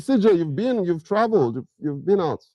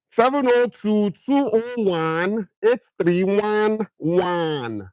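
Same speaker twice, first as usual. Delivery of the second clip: Nigerian accent; 5 semitones higher, slower than usual. Shown as a demonstration. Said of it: "for Naija accent".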